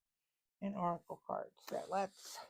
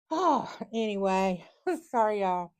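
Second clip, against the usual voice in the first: laughing through tears; 6 dB louder than usual. Real, not acted. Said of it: "Getting emotional".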